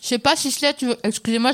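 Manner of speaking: talking with mouth full; words round a bite of food. Real, not acted. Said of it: "je mange la bouche pleine".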